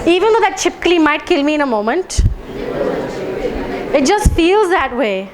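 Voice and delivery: laughing through the tapping phrase; laughing setup. Shown as a demonstration. Group tapping for the lizard fear, laughing. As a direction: chuckle as you say it. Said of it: "Do it with me".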